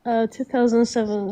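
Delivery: stuffy nose from a cold. Real, not acted. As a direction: talk through a blocked nose. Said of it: "Sorry if I sound a little stuffy".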